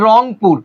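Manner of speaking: রংপুর split into rong and pur; syllable by syllable. Shown as a demonstration. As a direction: say রংপুর in two distinct beats. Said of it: "এখানে অক্ষর আছে কয়টা".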